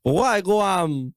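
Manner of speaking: mock Jamaican greeting. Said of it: "Jamaicans more like".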